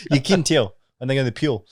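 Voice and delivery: exaggerated Aussie vowels, "tell" like "till"; put-on Aussie accent. Shown as a demonstration. Joking that accents give people away, put-on Aussie accent. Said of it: "I'm trying to put it on".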